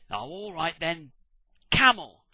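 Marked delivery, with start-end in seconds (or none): 1.7-2.2 Adam naming. Acted.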